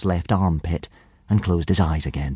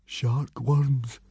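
small, higher nervous voice; gulped, nervous; 5 semitones higher, 4 dB quieter than usual. A narrator's reading. Fishlegs learning what lives in the current, nervous gulp. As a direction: gulp it out uneasily. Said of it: "gulped Fishlegs".

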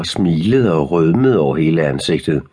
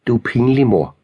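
higher, irritated retort; mild snarl; 5 semitones higher than usual. A narrator's reading. Noah embarrassed by his mother, mild snarl. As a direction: snap back with a touch of a snarl. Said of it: "men Noah snærrede".

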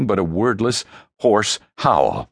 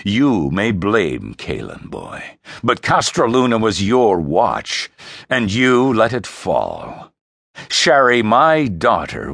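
cold, commanding king passing judgment; stern father; 3 semitones higher, 4 dB louder than usual. Acted. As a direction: lay down the law to his son.

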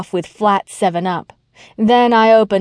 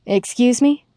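polite query; 4 semitones higher than usual. Acted. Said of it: "I asked politely".

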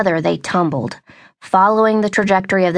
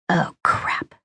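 breathless whispered "Oh, crap"; whispered aside; 5 dB quieter than usual. A narrator's reading. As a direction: mutter it under your breath. Narrator's inner thought.

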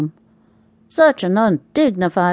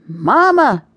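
sudden cry of Mama, pitched up; yelled; 4 semitones higher than usual. A narrator's reading. Waking from a nightmare, crying out for Mama, startled yell. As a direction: wake up calling out for Mama. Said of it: "I yelled".

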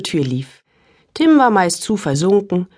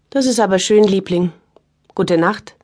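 mild. Acted. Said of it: "sagte Juliane so milde".

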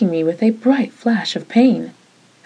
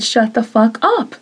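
mild yell; 4 semitones higher than usual. Acted. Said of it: "Her voice shocked me. She'd never yelled".

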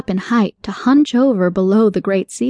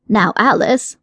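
scolding. Acted. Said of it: "the rabbit scolded".

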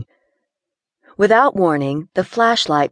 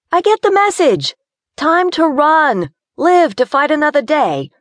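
higher, loud, fed-up fear; rising panic; 6 semitones higher, 3 dB louder than usual. Acted. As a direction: insist on leaving right now. Gina panicking, wanting out.

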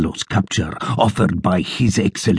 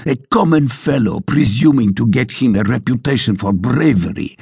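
blustering sergeant; 3 semitones higher than usual. Acted. Sergeant's continued tirade.

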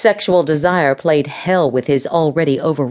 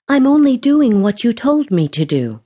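defensive explaining; 6 semitones higher than usual. A narrator's reading. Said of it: "she explained".

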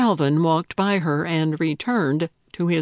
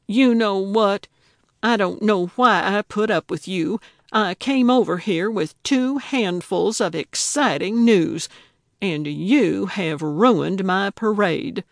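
incensed; 2 semitones higher than usual. Acted. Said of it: "Gertrude was incensed".

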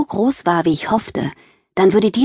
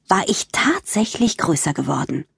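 whisper; 4 dB quieter than usual. Acted. Secret delight at growing.

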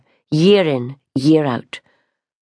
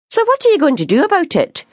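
fast, much higher insistent demand; 14 semitones higher, faster than usual. A narrator's reading. Sister pushes the baker about Rona, demanding. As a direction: press him hard for an answer. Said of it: "she demanded".

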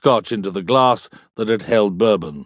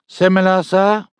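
barman voice; 8 semitones higher than usual. Acted. Barman Hogg addresses customer.

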